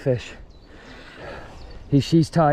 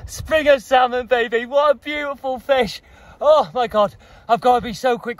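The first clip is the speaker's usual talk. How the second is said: excited; 6 semitones higher than usual. Real, not acted. Thrilled over caught salmon.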